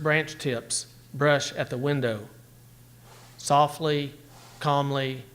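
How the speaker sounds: measured, unhurried poetry recital; poem reading. Acted. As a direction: let each image settle as you read. Teacher reads a poem aloud.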